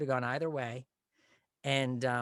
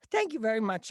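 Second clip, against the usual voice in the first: higher, louder nerd voice; nerd thank you; 10 semitones higher, 8 dB louder than usual. Retold or imitated. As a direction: sign off in the nerd voice. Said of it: "and I go".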